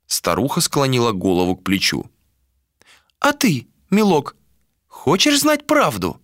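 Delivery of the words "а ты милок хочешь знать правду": put-on high old seer's voice; old woman voice. A narrator's reading. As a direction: speak as the blind old crone, pitched up. Old seer voiced by narrator.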